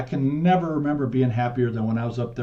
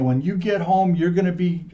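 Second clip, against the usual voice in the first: higher-pitched scolding threat; mildly raised angry voice; dad yelling; 4 semitones higher than usual. Retold or imitated. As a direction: imitate a dad laying down punishment. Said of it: "he's yelling at you".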